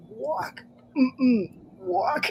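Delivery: hushed "walk, no, walk"; whispered warning. Retold or imitated. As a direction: whisper it, softly shaking your head. Paramedic warns her off the stairs.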